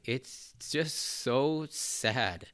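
very slow, close to tears; holding back tears, slowly; choked up. Real, not acted. Reviewer moved by a sad backstory, choked up. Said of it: "kinda getting me a little bit choked".

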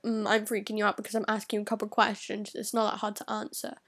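low, rapid, huffy imitation; lightly mocked irritated comeback; imitated moody retort. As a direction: mimic her in a mood, rattled off fast. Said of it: "she gets in a mood".

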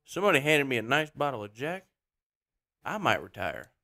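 Ricky Bobby. Pretend. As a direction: confide like a Southern race driver. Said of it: "some Ricky Bobby in there".

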